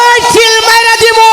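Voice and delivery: shouted threat. Acted. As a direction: yell the threat like a film villain. (চিৎকার করে হুমকি)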